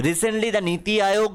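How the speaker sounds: reads the English line very slowly, word by word; slow dictation reading. Acted. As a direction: spell it out for the class at dictation pace. Reads the English news text slowly. (ধীরে ধীরে ইংরেজি পাঠ)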